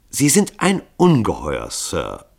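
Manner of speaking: ernst. Acted. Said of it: "versicherte ... ernst".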